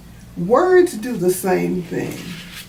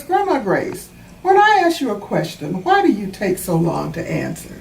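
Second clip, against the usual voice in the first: put-on child's question. Child Natalie asks grandma.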